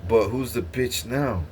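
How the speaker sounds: slow, gloating taunt. Real, not acted. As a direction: draw it out like a dare. Taunting the demons.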